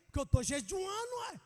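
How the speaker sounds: put-on light child voice, proud and insistent; son's reply. Father voicing son's proud answer.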